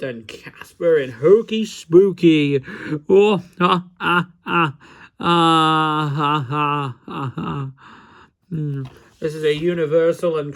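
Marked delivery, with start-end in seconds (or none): 0.0-2.6 slow, louder spooky read; haunting title announcement. Pretend. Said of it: "it's in a spooky voice". 3.1-7.7 hammed-up spooky cackle; mock ghostly ha ha; spooky laugh. Spooky laugh after titles.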